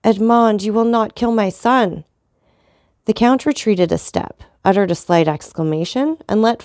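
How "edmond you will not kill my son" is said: despairing plea. Acted. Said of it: "with an accent of despair".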